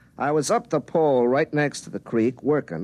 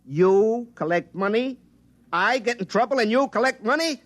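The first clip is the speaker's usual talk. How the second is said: can't believe what he hears; outraged disbelief; 9 semitones higher than usual. Acted. Outraged at future self.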